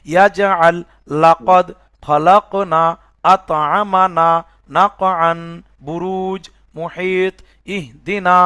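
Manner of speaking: slow, measured word by word recitation. Shown as a demonstration. Teacher reciting words for student to repeat, slowly. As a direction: recite each word slowly for them to copy. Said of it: "এবার আপনি আমাকে শোনাবেন".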